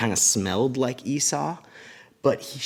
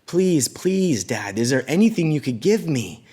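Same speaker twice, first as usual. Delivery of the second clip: higher-pitched pleading with Dad; begging; 5 semitones higher, 4 dB louder than usual. Retold or imitated. Esau begging his dad for any blessing, pleading. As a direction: plead urgently, voice lifted, as a retold beg. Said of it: "he started begging".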